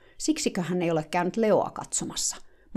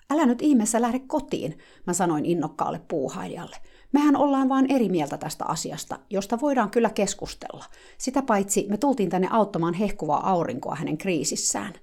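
pleading; 3 semitones higher than usual. Retold or imitated. Narrator begging the helper not to go home, earnest. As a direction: coax her to stay and calm down.

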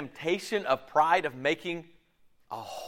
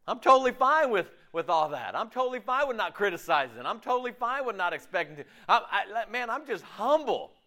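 laughing mock humility; 7 semitones higher than usual. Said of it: "mocking false humility".

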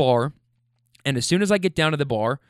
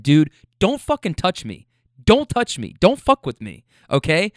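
forceful, slightly raised warning; heated but controlled telling-off; retold angry confrontation; 2 semitones higher than usual. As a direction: reenact telling a guy to back off.

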